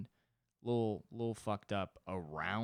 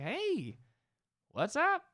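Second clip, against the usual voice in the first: put-on high baby voice; 7 dB louder, slower than usual. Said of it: "but they're like".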